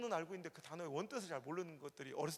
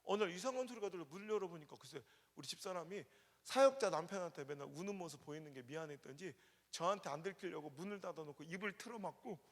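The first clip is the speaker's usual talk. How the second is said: usual speaking voice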